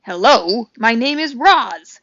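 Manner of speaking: slow, stiff robot greeting; owl imitating a robot. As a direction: mimic a machine voice, mildly. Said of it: "I think it was saying".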